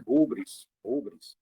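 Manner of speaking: "rubris" with stress on the first syllable; Greek pronunciation. Shown as a demonstration. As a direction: model "rubris" as HU-bris, with a breathy initial h. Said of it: "como é que se pronuncia?".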